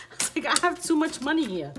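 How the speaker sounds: baffled but tickled; loud, high amused disbelief. Real, not acted. Amused at too much money.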